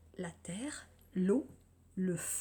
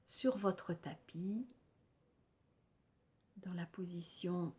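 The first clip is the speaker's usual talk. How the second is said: calm, unhurried guided-relaxation voice with long pauses; lightly meditative delivery, letting phrase endings settle; guided yoga nidra. Real, not acted. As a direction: guide listeners gently into rest, phrase by phrase.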